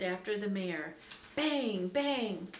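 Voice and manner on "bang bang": two punched, falling bangs; voiced gunshots. A narrator's reading. Narrator voicing shots at the fleeing riders, punched. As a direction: imitate gunfire with the word, pitched up.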